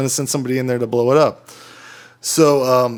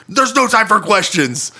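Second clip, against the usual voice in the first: high, slow mock-urgent cry; imitating panicked coworker; 7 semitones higher than usual. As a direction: act out a coworker too panicked to explain. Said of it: "this is how she approaches the situation".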